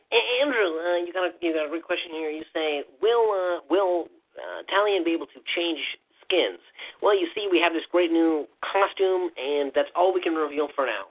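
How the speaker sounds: lightly voiced nerdy presenter. Developer reading Andrew's question then revealing nothing, lightly nerdy voice. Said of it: "your nerdy voice is just barely, barely higher".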